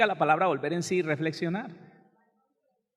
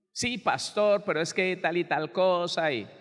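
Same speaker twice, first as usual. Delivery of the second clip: higher-pitched "yes, but" objection, mimicked; imitated protest; 4 semitones higher than usual. Wife brushing off the pastor's Bible advice, mimicked protest. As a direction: mimic a mildly protesting wife making excuses.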